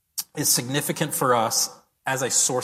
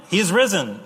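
joyful proclamation; 5 semitones higher, 5 dB louder than usual. Retold or imitated. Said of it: "the globe is saying".

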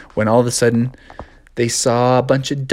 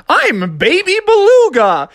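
whale voice; 4 dB louder than usual. Acted.

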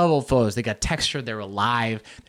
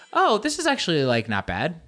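mock pleased; 2 semitones higher than usual. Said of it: "at first you're like".

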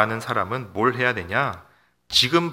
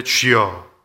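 a louder called-out "주여"; crying out to God; 6 dB louder, much slower than usual. Shown as a demonstration. Pastor showing the congregation how they cry out, calling louder. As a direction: call "주여" out like a prayer cry. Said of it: "이렇게 부르짖죠".

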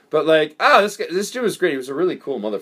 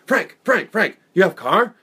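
mock broken English; 6 semitones higher, 5 dB louder, slower than usual. Girlfriend voiced in story.

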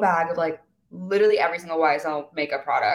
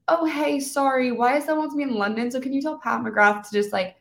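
mock sweet apology; 6 semitones higher than usual. Mock apologetic call to agent.

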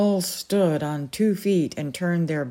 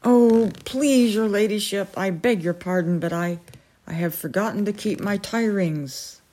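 sobbing plea; 3 semitones higher than usual. Acted. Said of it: "broke down altogether and sobbed out".

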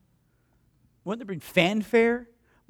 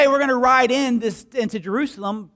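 fast, higher, louder excited telling; hyped up; 5 semitones higher, 6 dB louder than usual. Retold or imitated. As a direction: rush it out, all pumped up. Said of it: "they probably got hyped".

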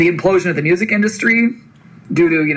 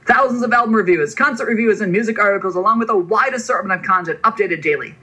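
hype voice. Acted. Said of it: "use a hype voice".

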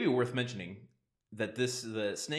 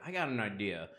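put-on Texan accent; 2 semitones lower than usual. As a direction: pitch an idea in a lightly put-on Texan accent. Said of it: "I don't know why I made him Texan".

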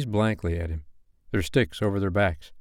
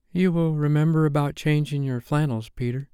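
higher, lingering motherly reminder; lingering tenderly; 5 semitones higher than usual. A narrator's reading. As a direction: linger over him tenderly. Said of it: "lingering over him".

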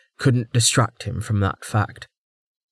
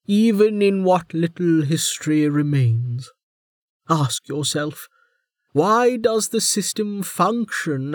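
put-on higher, stern older woman; warden voice; 7 semitones higher than usual. A narrator's reading. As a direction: lecture him like a wry jailer.

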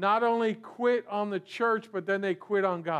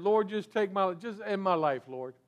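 mock sulking. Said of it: "So upset with what's going on".

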